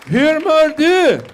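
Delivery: loud, high, drawn-out mock Swedish; hammed-up Swedish. Comic greeting a Swede in his language, hammed-up Swedish accent. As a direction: stretch it out in exaggerated Swedish.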